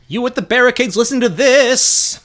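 loud, high proclamation; high, cold villain. Acted. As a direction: call out coldly through a great hall. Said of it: "a high, cold voice echoing through the hall".

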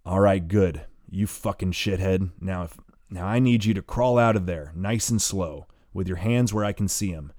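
menacing threat. Acted. Gunman ordering the hidden boy out, menacing. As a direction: order him out at gunpoint.

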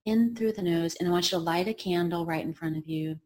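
mock guided meditation. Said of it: "he's like".

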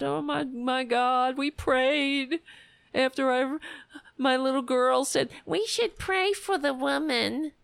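whiny high mock prayer voice; mock pious crying. Mocking Kavanaugh's tearful testimony, whiny. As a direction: lampoon a weepy pious judge. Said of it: "All crying about".

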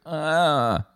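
drawn-out groan of discomfort; mock queasy moan; imitated groan. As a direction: groan as if the stomach turned. Imitates own groan after eating sandwiches.

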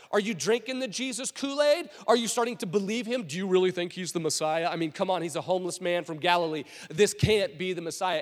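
incredulous string of taunts; mocking. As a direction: make fun of gullible underlings. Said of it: "starting to make fun of their temple guards".

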